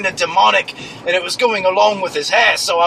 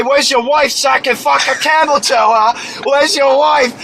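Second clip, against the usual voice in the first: mock yelled taunt, raised pitch; shouted insult; 4 semitones higher than usual. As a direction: yell it in his face. Yelling insult at dirty man.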